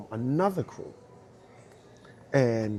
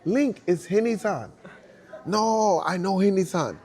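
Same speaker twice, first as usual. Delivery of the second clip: imitating an insistent argument; 9 semitones higher, 7 dB louder than usual. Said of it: "Sam is like".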